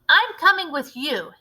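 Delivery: insist, not missing supper; greedy boy Bruno. Acted.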